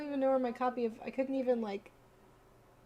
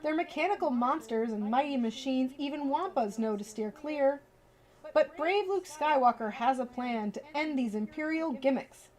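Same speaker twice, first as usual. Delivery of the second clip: lively storybook read-aloud; reading to children; 3 semitones higher than usual. Acted. Streamer reading a bedtime book to viewers, lively storybook voice.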